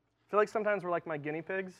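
ordinary talk

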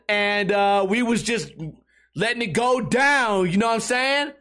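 a hint of a laid-back slangy talker, slow in places; lightly voiced rambling dude; mock street talker. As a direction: lazily mimic someone padding every sentence. Imitating filler-word speaker.

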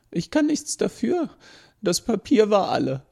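put-on a childlike machine stating the obvious; robot explains the mess to the professor, unbothered; matter-of-fact robot. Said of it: "sein Tonfall vermittelte, dass er die Erklärung für vollkommen einleuchtend hielt".

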